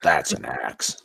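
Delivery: broad Australian, slowing on the punchline; Aussie movie-hero parody; Australian accent. Acted. Riffing on Australian Kratos, broad Australian accent. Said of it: "if Kratos was Australian".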